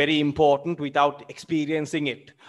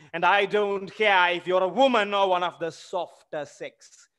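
acted quarrel; 3 semitones higher than usual. Widow and Smirnov duel quarrel.

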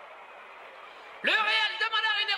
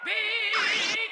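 excited goal call; 4 semitones higher, 3 dB louder than usual. Acted. Announcer crying out the goal. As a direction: cry out the goal.

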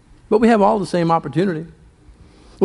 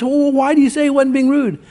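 higher-pitched retold objection; puzzled challenge; 4 semitones higher than usual. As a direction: question it, pitched up, not convinced. Companion challenges the pastor.

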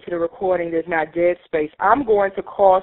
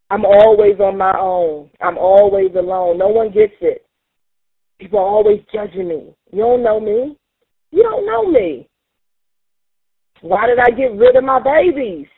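pained outcry; 4 dB louder than usual. Acted. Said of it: "I'm gonna express the pain".

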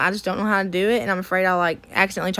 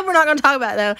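laughing repeat; 4 semitones higher, much faster than usual. Shown as a demonstration. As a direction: laugh it off, brushing the topic aside. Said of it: "I said we're not gonna talk about it".

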